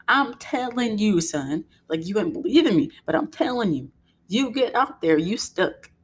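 emphatic mock telling-off; stern parental warning. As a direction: lay down the law to your kid, mock-serious. Acted warning to her son.

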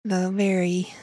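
slow, soft Southern drawl. Shown as a demonstration. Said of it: "that Southern kinda drawl".

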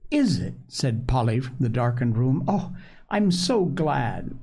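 unhurried storybook reading with lilting dialogue; story narration. A narrator's reading. Reading Polly's story to listeners, expressive narration. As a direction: read it like a bedtime chapter book. Reads a children's novel aloud.

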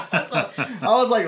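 laughing out loud while talking; real cackle. Real, not acted. Host recalling the funny movie scene, cackling out loud. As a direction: burst into real laughter mid-sentence. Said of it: "made me cackle".

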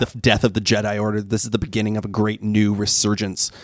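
a hint of sinister Emperor. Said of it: "that ridiculous Emperor voice".

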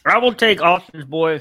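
talking around a sip; words half muffled by a drink; while sipping a drink. Real, not acted. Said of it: "Sorry, I'm drinking".

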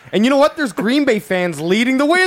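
laughing in disbelief; high squeal of shocked laughter. Real, not acted. Reacting to crowd footage.

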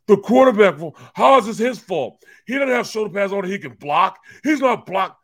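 high, loud outraged protest; indignant shout. Retold or imitated. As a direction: shout back in disbelief. Coworker shouts back indignantly.

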